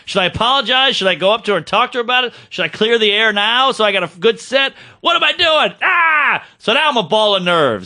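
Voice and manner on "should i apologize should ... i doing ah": panicked inner monologue rising to a shout; frantic worry. Retold or imitated. Comic retelling his nerves before the show, frantic. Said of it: "Now I'm racking my brain".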